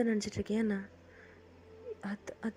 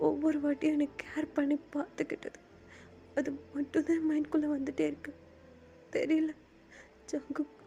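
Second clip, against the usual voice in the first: tearful, higher pitched confession; crying; 3 semitones higher than usual. Acted. The speaker admits missing a bandmate to friends, tearful. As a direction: speak through rising tears. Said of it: "இப்ப எதுக்கு அழுகுற?".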